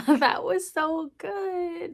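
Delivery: laughing, high and slow, drawn-out praise; gushing delight. Real, not acted. Vlogger raving to viewers about her tutor lesson, giddy and drawn out. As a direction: savour every word with a giddy laugh.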